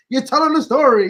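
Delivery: firm insisting repeat; emphatic. Real, not acted.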